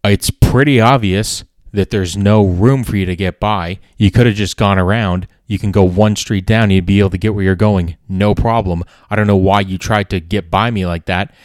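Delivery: loud, firm pushback; retold yelling back. The comedian firing back at the driver, loud and firm. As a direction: talk back hard but steady. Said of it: "we're yelling back and forth".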